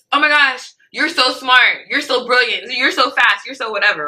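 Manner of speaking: high, gushing praise; mock the boss's over-the-top flattery.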